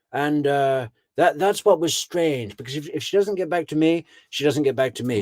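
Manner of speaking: a lightly voiced nervous husband playing innocent; hammed-up fake concern; mock performed worry. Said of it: "all this acting that he has done".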